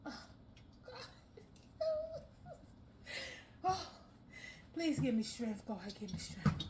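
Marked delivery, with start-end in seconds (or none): 3.6-6.6 low, strained plea for strength; praying for patience through teeth. Real, not acted. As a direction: beg the heavens for patience. Prays for patience struggling.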